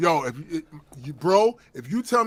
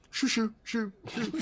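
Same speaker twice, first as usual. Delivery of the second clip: mock shooing; 6 semitones higher, 7 dB quieter than usual. Shooing the beggar away.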